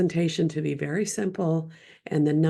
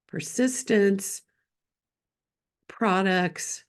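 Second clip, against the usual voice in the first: ordinary delivery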